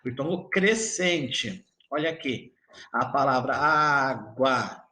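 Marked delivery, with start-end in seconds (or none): 2.9-4.8 "água" said slowly with the U barely heard; slow demo word. Shown as a demonstration. Teacher slowly models "água" for the students. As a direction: stretch out "água", the U almost silent. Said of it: "o U eu quase não escuto".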